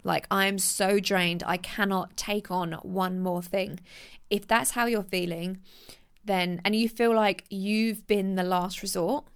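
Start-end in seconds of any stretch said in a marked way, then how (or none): 0.0-3.8 mock exhausted complaint; imitating someone fed up. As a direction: sound completely done with everything. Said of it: "you're like".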